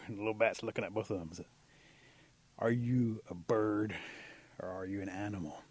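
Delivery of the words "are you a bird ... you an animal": stern questioning. Acted. Eagle interrogates the bat.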